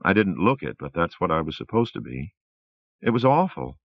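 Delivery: a lightly voiced wife, still shaken; Rosemary voice. Rosemary at mirror.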